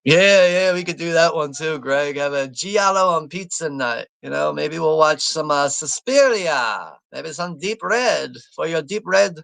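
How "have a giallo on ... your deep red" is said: hammed-up bad Italian accent; terrible Italian accent. Host joking about horror-film pizza night, bad Italian accent. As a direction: put on a silly, badly faked Italian accent. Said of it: "I'm doing a terrible Italian accent".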